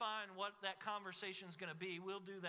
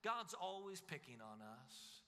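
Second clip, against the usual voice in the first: Judah complaining; 5 semitones higher than usual. Acted. Preacher voicing Judah's grumbling at God, building to an indignant whine. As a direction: whine that God picks on us, rising to an outcry. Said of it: "Judah might have thought to themselves".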